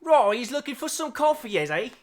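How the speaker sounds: stereotypical Australian. Acted. GM voicing the barista in a hammy high Australian accent. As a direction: play the barista as a cartoon Aussie, high and loud. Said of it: "horribly stereotypical Australian accent".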